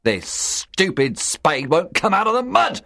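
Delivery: a mild angry outburst; frustrated cry. A narrator's reading. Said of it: "he cried".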